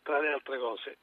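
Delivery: blocked nose, head cold; stuffy nose. Real, not acted. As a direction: talk through a stuffed-up nose. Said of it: "sono un po' raffreddato". (voce raffreddata, naso chiuso)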